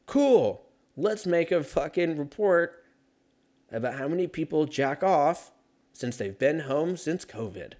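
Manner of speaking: high, eager fake boss; hammed-up enthusiastic editor; mock excited editor. Imagined editor dialogue.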